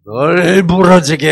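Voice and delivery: slow, loud Chungcheong dialect 널 부러지게; 충청도 사투리로 느리게. Shown as a demonstration. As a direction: drawl out the Chungcheong phrase slowly and loudly. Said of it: "충청도 말로 하면 어떻게 돼요?".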